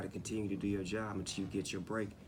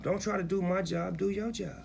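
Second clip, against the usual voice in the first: emphatic command; 9 semitones higher than usual. Acted. Artist telling critics to mind their own work, emphatic. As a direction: lay down the rule, punching each word.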